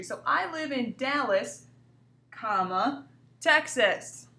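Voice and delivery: a clear pause at "comma" between Dallas and Texas. Shown as a demonstration. Teacher spelling out the comma for the class, pausing at it. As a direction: set "Dallas, comma, Texas" apart piece by piece. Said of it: "between the city and state".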